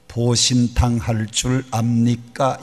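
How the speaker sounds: drawn out, slow Seoul-style question; slow Seoul speech. Retold or imitated. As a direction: lay out every syllable slowly. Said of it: "충청도 말이 정말 빠릅니다". (느릿한 서울말 흉내)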